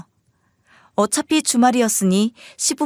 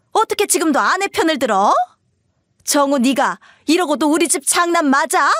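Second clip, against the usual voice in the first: higher-pitched, reproachful scolding; berating mother; 5 semitones higher than usual. Acted. Mother berating eldest son for siding with wife, reproachful. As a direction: hammer the reproach at your son.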